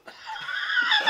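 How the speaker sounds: squealing laugh; high laughing burst; high burst of laughter. Real, not acted. Laughing at Rob.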